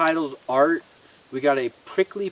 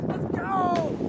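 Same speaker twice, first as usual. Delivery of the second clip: high excited yell; cheering shout. Real, not acted. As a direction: hype it up, shout it out. Cheering from the boat.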